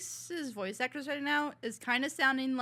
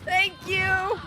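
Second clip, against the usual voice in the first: excited; 11 semitones higher, 8 dB louder than usual. Real, not acted. Cheering on fight scene.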